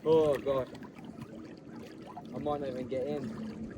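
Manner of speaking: hushed gasps in freezing water; breathy gasps, bracing against the cold; in ice cold water. Real, not acted. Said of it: "It's so cold".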